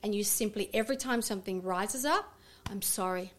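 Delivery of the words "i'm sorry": soft apology. Shown as a demonstration. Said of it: "Say to that part".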